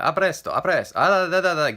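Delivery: put-on loud, high, projected Italian accent; lunatic mock Italian. Voice coach talking to themselves all the time, manic Italian accent. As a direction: belt out Italian babble like a lunatic. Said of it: "like some complete lunatic".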